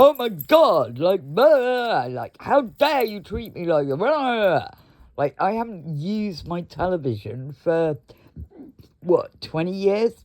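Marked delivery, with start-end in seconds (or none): 0.0-4.7 higher and louder, hammed-up outrage; mock hysterical. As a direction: squeal it like a hysterical caller. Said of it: "start getting hysterical".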